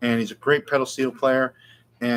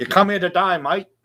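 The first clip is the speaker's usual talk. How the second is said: exaggerated put-on Australian accent, pitched up; 6 semitones higher, 3 dB louder than usual. Speaker on a show, still doing his Australian accent: Australian accent. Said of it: "that's my Australian accent".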